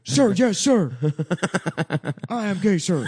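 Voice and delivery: high, loud shouted recruit voice; nervous eager young recruit. Acted. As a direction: bark it like a green private. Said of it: "It's a character".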